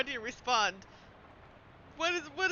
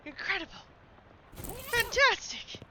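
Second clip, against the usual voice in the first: hammed-up delight; 12 semitones higher, 3 dB louder than usual. The streamer cheers the upgrade, hammed-up. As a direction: savour the word like a cartoon host. Celebrating the game reward.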